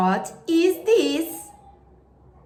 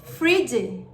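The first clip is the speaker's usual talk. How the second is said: language lesson narrator; 3 semitones lower than usual. Shown as a demonstration.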